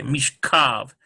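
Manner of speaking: Mishkav with the weight on "kav"; stress on KAV. Shown as a demonstration. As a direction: hit the K, mish-KAV. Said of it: "the, the K".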